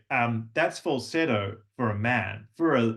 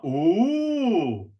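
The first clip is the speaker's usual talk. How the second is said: much higher, louder ooh; impressed ooh; 7 semitones higher, 5 dB louder than usual. Shown as a demonstration. Teacher admiring a student's work, louder ooh. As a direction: swoop up impressed. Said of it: "There's another one".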